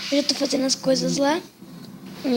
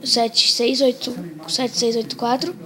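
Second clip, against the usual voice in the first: slow and clear. Shown as a demonstration. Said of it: "você digita o número".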